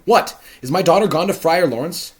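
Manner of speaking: loud, high blustering father; Capulet. Acted. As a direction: bark it out as the bossy lord of the house. Capulet asks after Juliet.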